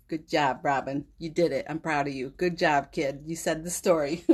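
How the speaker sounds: the spirit's praise said through tears; tearful. Real, not acted. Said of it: "I don't always like crying on camera".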